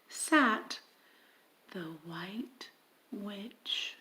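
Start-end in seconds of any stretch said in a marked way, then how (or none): 1.7-3.9 hushed whisper for the name; whispered ominous name. A narrator's reading. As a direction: breathe the name like a secret. Narrator hushes witch's name.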